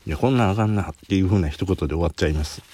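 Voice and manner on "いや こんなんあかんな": verdict in casual Kansai dialect, a bit livelier. Shown as a demonstration. Curry bread taster sums up his verdict, Kansai dialect. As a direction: say it as an everyday Kansai local. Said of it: "関西弁で言うと".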